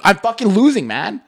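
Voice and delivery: high, loud whine on losing; mock whiny gamer. Friend mocking his gaming buddy, high whiny voice. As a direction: imitate a sore loser's whine. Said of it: "and you're like".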